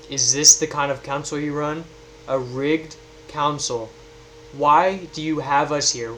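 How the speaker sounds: a touch of angry confrontation; indignant accusation. Acted. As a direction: demand answers from the gods. Player character confronting the council.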